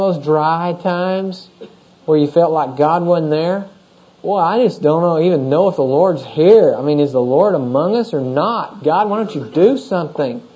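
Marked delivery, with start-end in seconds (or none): 4.2-10.4 mildly whiny, doubting grumble; grumbling complaint. Acted. Believer in a dry time complains to God, grumbling. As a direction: complain to God, pitch swinging up and down. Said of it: "you begin to grumble".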